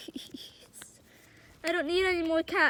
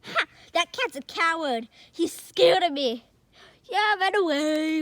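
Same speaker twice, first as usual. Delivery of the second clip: taunting; 6 dB louder than usual. Pretend. Kid's dog taunting the fleeing cat. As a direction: gloat as the cat runs off.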